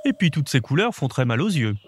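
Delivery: exclaiming owl. Acted. Owl complaining about the colours, mildly exclaiming. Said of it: "s'exclama le hibou".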